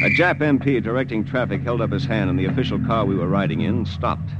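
steady retelling voice over music; story narration. A narrator's reading. Lieutenant recounting the drive to the camp, in calm narration. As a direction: narrate the journey as a tense memory.

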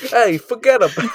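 a deliberately bad Australian accent, half laughing. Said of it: "This is me doing a bad Australian accent".

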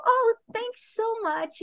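mock grateful. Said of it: "I go".

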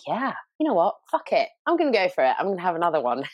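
high, brash burst of daring; mock reckless excitement. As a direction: throw caution to the wind, hammed up.

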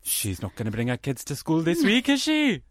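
Welsh gossip with a high tag question; gossiping Welsh local. Acted. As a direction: tut in Welsh, leaping up at the end.

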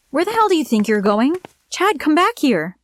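high, yelling after him; yelled. A narrator's reading. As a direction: shout across the room at a man walking out. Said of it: "I yelled".

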